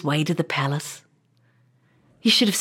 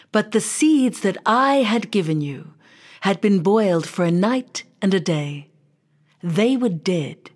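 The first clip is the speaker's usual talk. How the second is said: king's speech; 2 semitones lower than usual. Acted. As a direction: address the crowd, then soften at the end. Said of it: "the king said loudly".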